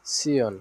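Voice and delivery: "সিয়ন" said as si-on; demonstrated pronunciation. Shown as a demonstration. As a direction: answer the drill with "সিয়ন", falling. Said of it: "কি উচ্চারণ করা হয়?".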